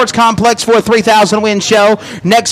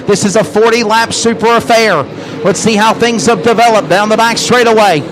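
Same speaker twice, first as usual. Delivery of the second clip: fast race-call commentary; live play-by-play. Real, not acted.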